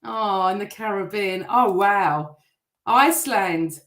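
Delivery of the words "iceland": "Iceland." called out like a Eurovision vote announcer, louder with a falling tune; Eurovision host. Pretend. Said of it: "I sound like I'm on Eurovision".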